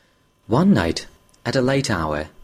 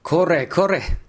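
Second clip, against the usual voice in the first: rough exclamation; 7 semitones higher than usual. Acted. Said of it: "roughly exclaimed the soba man".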